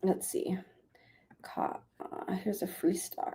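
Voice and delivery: breathy whisper to herself. Real, not acted. Vlogger editing her thumbnail, whispering to herself. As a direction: whisper it while concentrating.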